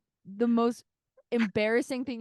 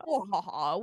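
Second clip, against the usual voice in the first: evil laugh; 4 semitones lower than usual. Pretend. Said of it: "we must be villains".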